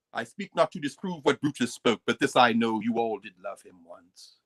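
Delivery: put-on lightly theatrical British accent, dropping low and slowing at the end. Professor quoting Shakespeare's Roman to the class, British accent. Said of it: "why are you speaking with a British accent".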